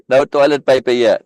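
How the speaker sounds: loud joke through laughter; tickled and loud; amused laughing. Real, not acted. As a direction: still chuckling, punch it out loudly. Joke between bursts of laughter.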